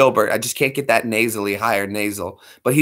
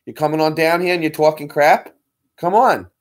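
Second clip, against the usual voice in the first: a rapper impression; 2 semitones higher than usual. Retold or imitated. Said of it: "doing some rapper impression".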